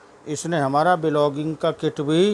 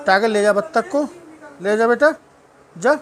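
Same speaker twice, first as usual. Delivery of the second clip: higher, coaxing pet voice; coaxing the dog; 5 semitones higher than usual. Real, not acted. Coaxing the dog to take toy. (ऊँची आवाज़ में लाड़ से मनाना)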